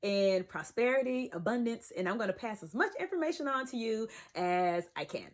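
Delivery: a light polished vlogger voice; YouTube voice. Pretend. Vlogger mocking her old channel persona, lightly polished voice. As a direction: put on your announcer polish for the camera. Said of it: "That was my YouTube voice".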